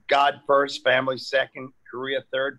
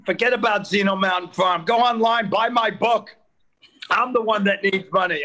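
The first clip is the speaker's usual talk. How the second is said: louder, higher sales pitch; mock pushy plug; 4 semitones higher, 6 dB louder than usual. Real, not acted. Comedian loudly plugging his own book over the host.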